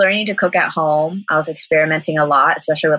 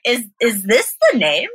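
laughing; 5 semitones higher than usual. Real, not acted. Realizing the name, laughing.

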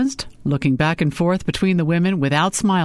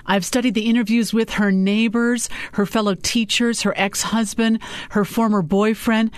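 higher, measured listing; lightly voiced Sophie, professional; 6 semitones higher than usual. A narrator's reading. Sophie briefs client on the reports, higher and businesslike. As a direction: list each report for the client. Sophie continues her list.

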